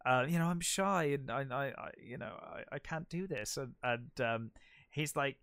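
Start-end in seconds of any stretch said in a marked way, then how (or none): 0.3-3.6 softer, mock-bashful voice; fake shy. Conan fakes shyness to lure the priest, in soft mock bashfulness. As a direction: pretend to be timid and hesitant.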